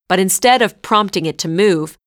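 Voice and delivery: usual speaking voice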